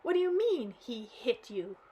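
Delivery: put-on old man astonished at his granddaughter. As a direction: act stunned. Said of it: "Wood was astonished".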